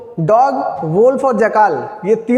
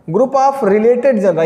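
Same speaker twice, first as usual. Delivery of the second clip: slow dictation pace; much slower than usual. Shown as a demonstration. Teacher dictating a definition to students, slowly. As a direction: spell out group of related genera word by word. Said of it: "अगर हम definition लिख लें".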